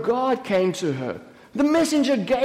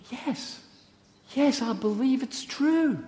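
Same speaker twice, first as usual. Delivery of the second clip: very soft, earnest affirmation; hushed conviction; 3 semitones higher, 6 dB quieter than usual. Acted. Mary affirming her belief to her doubting sister, hushed conviction. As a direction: answer softly, pausing after the first word.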